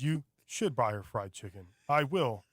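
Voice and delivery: argument read out with no feeling; mock a stilted dub, audiobook-style; imitating emotionless dub. Mocking the dubbed mother and son arguing, emotionless. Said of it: "like they're reading an audiobook".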